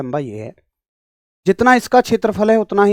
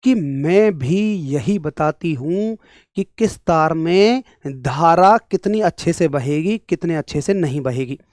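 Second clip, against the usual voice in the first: lightly voiced talking concept, very slow; slow, measured hint of a personified quantity; resistivity speaking; 2 semitones lower, slower than usual. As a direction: draw it out slowly as resistivity introducing itself. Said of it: "प्रतिरोधकता कह रही है".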